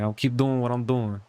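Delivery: put-on light Brooklyn accent on "I'll keep doing what I'm doing". Re-creating a slip into Brooklyn accent for viewers, lightly. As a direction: say it like a casual New York guy. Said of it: "that's how it came out".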